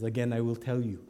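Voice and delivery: low, soft, measured refusal; icy stranger shutting down questions; stone cold. Acted. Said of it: "the guy looks ahead and he says".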